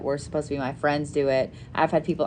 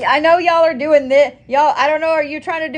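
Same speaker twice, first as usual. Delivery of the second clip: laughing; 9 semitones higher, 6 dB louder than usual. Real, not acted. Laughs at viewers in window.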